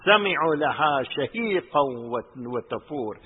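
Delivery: quick recited Arabic verse; fast Quran quote; Quran recitation. Acted. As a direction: rattle off the verse.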